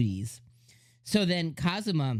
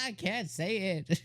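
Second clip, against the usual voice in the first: slow, higher retold line through laughter; squeezed out between laughs; laughing quote; 4 semitones higher, 5 dB quieter, slower than usual. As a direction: imitate him while cracking up.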